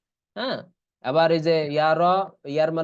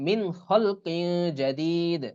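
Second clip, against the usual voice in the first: slow, drawn-out recital; tajweed recitation; much slower than usual. Shown as a demonstration. Teacher demonstrates the verse with ghunna. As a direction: recite slowly like a Quran reader. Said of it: "এবার মি".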